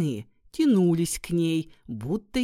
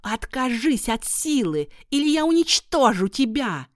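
high, loud menacing threat; witch threat; 6 semitones higher, 5 dB louder than usual. Acted. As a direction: threaten her with venom.

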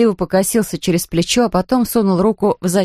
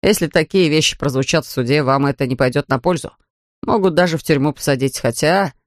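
a hint of a lower, sober officer voice; lightly voiced policeman; 4 semitones lower than usual. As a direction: read the policeman slightly lower and matter-of-fact. Narrator plays the policeman. (слегка пониженный голос полицейского)

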